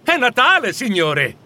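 put-on high, emphatic astonished boy; amazed lad, loud on the first words; surprised youth. A narrator's reading. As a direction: exclaim it as if everyone should know. Surprised boy announcing Christmas.

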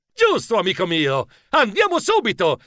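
esclamazione che sale su "subito"; esclamazione decisa. Acted. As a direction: dillo come un invito pronto a partire. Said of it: "esclamai io". (esclamazione convinta)

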